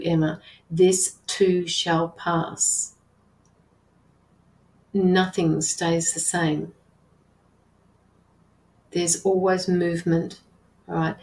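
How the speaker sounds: slow, gentle and soothing; slow reassurance. Real, not acted. Medium comforts Emma about her daughter, slow and gentle. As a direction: let each word settle, calmly.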